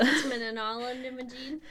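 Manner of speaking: "Etymology" mangled slowly, syllables jumbled; mispronounced. Real, not acted. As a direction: stumble slowly through "Etymology". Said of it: "One day I will get you to say it right".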